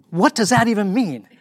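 high, incredulous question; can't believe what he just heard; baffled. Retold or imitated. Reacting to Elwood's strange job title, baffled and high.

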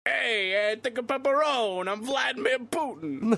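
high, loud, hammed-up accent shout; Vladimir Putin. Co-host's Putin orders pepperoni, shouted mock accent. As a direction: holler it in a joke accent, stretching the name. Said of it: "That's Vladimir's real accent".

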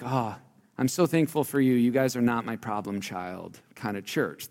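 soft, mildly relieved thanks; grateful relief. Retold or imitated. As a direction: imitate a thankful pastor, easing off softly. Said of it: "This is the tone that Paul has".

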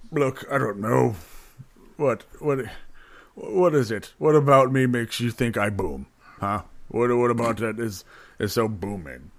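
puckered, talking through sour fruit; eating sour candy. Acted. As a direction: mouth full of sour fruit. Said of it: "it's so sour".

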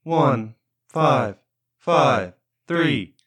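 slow PA announcement; measured loudspeaker call; through a megaphone. Pretend. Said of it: "announcement sounds over the public loudspeaker".

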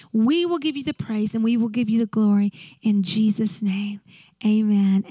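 pastor's closing prayer, firm and devoted; earnest prayer. Acted. Leads congregation in prayer.

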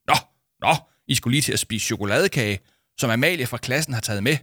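a touch of wide-eyed alarm; wide-eyed repeat. Acted. Paul repeats the caller's news, mildly wide-eyed. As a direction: echo the news, eyes popping. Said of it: "gentog Paul med opspilede øjne".

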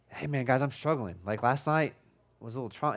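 subdued, sinking voice of a struggling man; downcast. Retold or imitated. Downcast churchgoer telling friends he's struggling, dejected. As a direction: confess it low-key and dejected. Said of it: "He's downcast. He's like".

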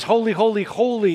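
"Holy, holy, holy" each holy given full emphasis, rising pitch; emphatic repetition. Shown as a demonstration. Preacher showing the triple repetition, stressing every "holy". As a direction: build it like a triple exclamation. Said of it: "putting it in bold with an exclamation mark".

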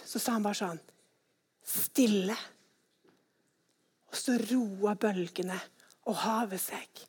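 quiet command of stillness; hushed calm. Acted. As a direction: let the storm settle into silence. Jesus calms storm, hushed telling.

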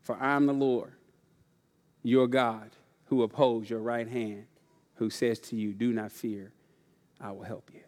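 quiet unison scripture reading; hushed recitation. Shown as a demonstration. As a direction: murmur the verse together, barely voiced. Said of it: "Say it with me".

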